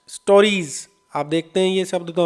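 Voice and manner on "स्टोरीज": "स्टोरीज" with a voiced z after the long ee; Z sound at the end. Shown as a demonstration. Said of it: "एस का उच्चारण से नहीं होता". ("स्टोरीज" के अंत में ज की आवाज़)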